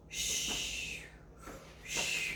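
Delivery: soft whispered shh; hushing whisper. Acted. Shushing viewers so the dog can sleep, whispered. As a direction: hush the listeners, don't wake him.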